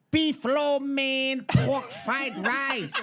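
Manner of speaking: put-on high, loud, slow Asian accent; insistent prank caller's put-on Asian accent; mock Asian accent. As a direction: stretch out the menu in a caricatured Asian accent. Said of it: "you can't do an Asian accent".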